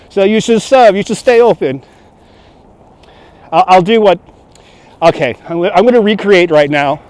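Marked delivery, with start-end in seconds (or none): 0.1-1.8 put-on arrogant French accent. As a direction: demand service as an arrogant French tourist, accent thick. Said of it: "my French accent is the, is the arrogant French tourist accent".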